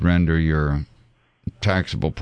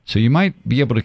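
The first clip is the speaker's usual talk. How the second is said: "might" pushed up high; stress on MIGHT; 5 semitones higher, faster than usual. Real, not acted. Adviser qualifying the caller's plan, stressing "might". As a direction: lean hard on "might" early in the phrase. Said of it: "underline the word might".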